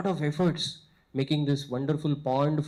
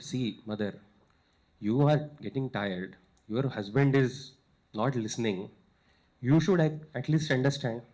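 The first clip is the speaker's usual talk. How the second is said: gentle coaxing; 4 semitones lower than usual. Retold or imitated. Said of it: "And he said".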